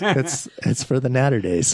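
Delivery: barely holding back a laugh; mock-serious ad line, grinning. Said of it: "You can't even say it with a straight face".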